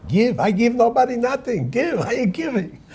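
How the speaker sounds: put-on indignant, high and loud Jewish accent; heavy Jewish accent. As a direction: balk loudly in a thick, high Jewish accent. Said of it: "with a heavy Jewish accent".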